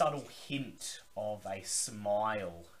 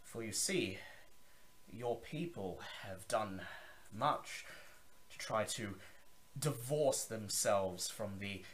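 a lightly lowered, confiding vampire host; Zachary, lowered voice. Acted. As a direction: lean in and share a secret. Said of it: "lowers his voice".

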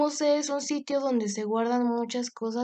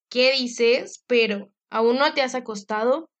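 surprised father; 5 dB louder than usual. Acted. Father surprised at late daughter.

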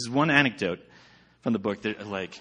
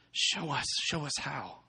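matter-of-fact; 5 semitones higher, 8 dB quieter than usual. A narrator's reading. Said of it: "so matter-of-factly".

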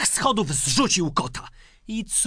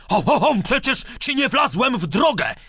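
lightly voiced indignant dog, pitched up; a touch of angry dog, higher than narration; angrily barking dog; 5 semitones higher, faster than usual. Dog protesting to the boy who hit him, mildly angry bark. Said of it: "a wtem gniewnie pies zaszczeka".

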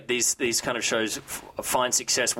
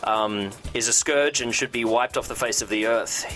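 news read. Acted. News and gossip segment read.

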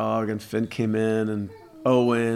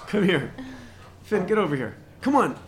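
high dog-calling voice; 8 semitones higher than usual. Real, not acted.

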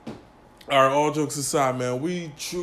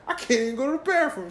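much higher, fast whiny movie character; quoted movie line; 9 semitones higher, much faster than usual. Retold or imitated. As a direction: rattle off the whiny line from Baby Boy. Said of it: "he's like".

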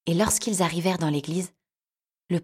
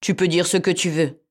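retorting; 5 dB louder than usual. Acted. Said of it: "rétorqua le chat".

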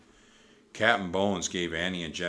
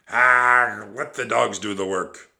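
very loud, contemptuous pirate growl; Captain Bones; 3 semitones higher, 13 dB louder than usual. A narrator's reading. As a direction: growl dismissively. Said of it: "growled Captain Bones".

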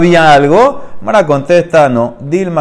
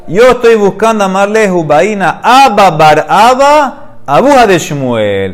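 raised, searching call among the dead; 5 semitones higher than usual. Acted. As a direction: call out for the father in the crowd. Shmuel calling among the spirits. (llamando en voz alta, buscando al padre)

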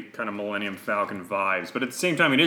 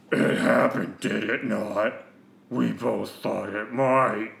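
fancy villain voice; slower than usual. Acted. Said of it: "a big fancy character to do".

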